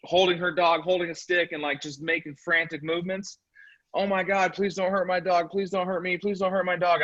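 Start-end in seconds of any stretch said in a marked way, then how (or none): 3.9-7.0 playing the frightened neighbour begging, half-hearted; mock terrified plea. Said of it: "this lady's screaming".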